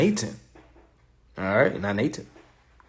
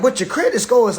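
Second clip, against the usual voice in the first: high squeaky lender; 13 semitones higher, 9 dB louder, faster than usual. Retold or imitated. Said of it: "But they be like".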